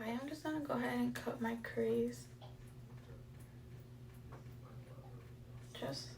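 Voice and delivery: speaking on a held breath; holding breath. Real, not acted. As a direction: hold your breath while talking. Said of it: "sorry, I hold my breath".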